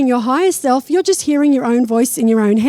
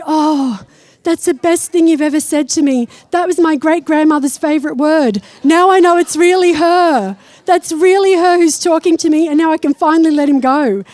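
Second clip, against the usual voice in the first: put-on delighted girl; 3 semitones higher than usual. Young woman to the medium, overjoyed it's really her great-grandmother, in an imitated excited voice. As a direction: retell her joy as she recognises her great-grandmother. Young client thrilled by the message.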